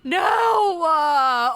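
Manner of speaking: sobbing cry of denial; tearful dismay. Real, not acted. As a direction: wail it in real anguish. Crying at game's ending.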